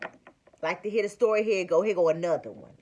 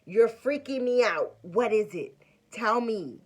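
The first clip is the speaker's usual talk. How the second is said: high, loud, anxious pleading; a worried husband begging to know what's wrong; 5 semitones higher, 5 dB louder than usual. Retold or imitated. Husband anxiously pressing her.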